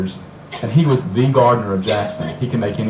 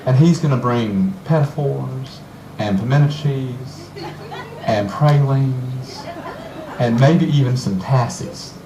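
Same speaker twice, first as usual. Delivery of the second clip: put-on southern accent; slower than usual. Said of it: "I pulled out my southern accent".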